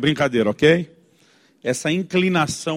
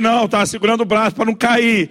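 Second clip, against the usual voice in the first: higher, exasperated mock answer; sarcastic retort; 5 semitones higher than usual. Father's unspoken reply to mother's question, sarcastic. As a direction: throw out the sarcastic comeback. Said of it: "Eu quero dizer".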